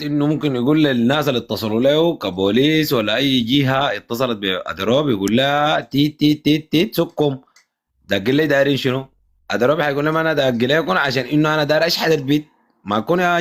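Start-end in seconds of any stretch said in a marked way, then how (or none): 5.8-7.4 drawn-out repeated "teet" beeps; imitated censor bleep. Co-host censoring the uncle's translated swearing, mock bleeps. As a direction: voice bleeps over the swear words.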